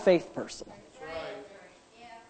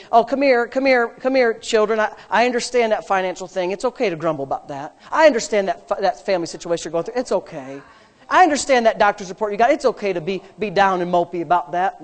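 mock coddling; 3 semitones lower, faster than usual. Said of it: "then Jesus would say to them right now".

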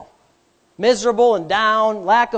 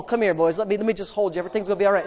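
mock coddling; 4 semitones lower, 6 dB quieter, much faster than usual. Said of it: "then Jesus would say to them right now".

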